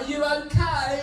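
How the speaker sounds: concerned wife. Retold or imitated. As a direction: check on him gently but urgently. Wife asking.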